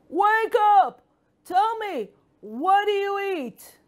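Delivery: high, loud shouting frog. Acted. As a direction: shout it out as the big-mouthed frog. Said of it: "the frog shouted".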